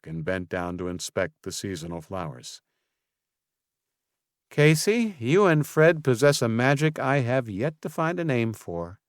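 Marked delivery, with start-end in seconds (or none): 4.5-9.0 marveling. A narrator's reading. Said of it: "she marveled".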